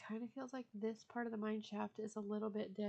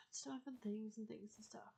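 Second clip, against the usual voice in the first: soft whispered singsong aside; playful whisper; 6 dB quieter than usual. Pretend. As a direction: breathe it out as a silly aside.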